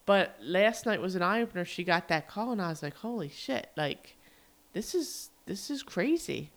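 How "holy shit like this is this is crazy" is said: higher, softer retold shock; stunned disbelief. Recalling a friend's eye-opening call last night, stunned disbelief. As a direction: relive a hushed moment of disbelief.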